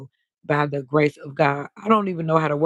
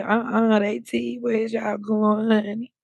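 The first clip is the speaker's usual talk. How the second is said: sassy quote; 5 semitones higher, slower than usual. Retold or imitated. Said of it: "I said".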